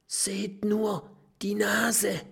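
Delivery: whisper. A narrator's reading. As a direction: whisper so the pirate won't wake. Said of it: "flüstert Mathilda".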